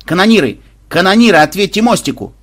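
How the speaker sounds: high, loud urgent hail; calling out loudly. Acted. Commander hails silent gunners from the bridge, shouting. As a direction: shout for an answer over the intercom.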